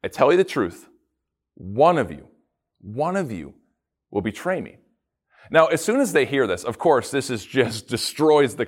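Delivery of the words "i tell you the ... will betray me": Jesus telling the disciples, gravely; solemn pronouncement. Retold or imitated. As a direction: deliver it like a heavy revelation. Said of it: "He says".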